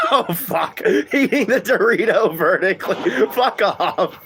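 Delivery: high, laughing squeals while talking; real laughter. Real, not acted. Streamer laughing at a chat joke, breaking into laughter.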